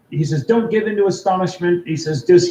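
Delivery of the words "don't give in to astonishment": higher-pitched imitation of a British friend; a light British accent, urging composure; calm British accent. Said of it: "he's very calm about it".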